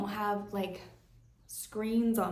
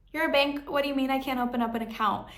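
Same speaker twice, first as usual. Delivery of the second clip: indignant disbelief; 5 semitones higher, faster than usual. Retold or imitated. Acting out her indignation at bank.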